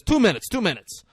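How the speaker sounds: high, loud hurried reply; acted harried cook fobbing someone off; calling back. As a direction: shout back from the grill.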